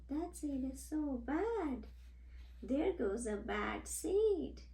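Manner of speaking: fretful onlookers murmuring in fear; scared seeds. Retold or imitated. Frightened seeds gossip about the bad one, nervously. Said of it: "They're even looking scared".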